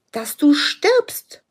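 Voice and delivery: slow dramatic whisper. Acted. Coach telling the client to let the past die, slow whisper. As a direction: breathe the words slowly like a secret.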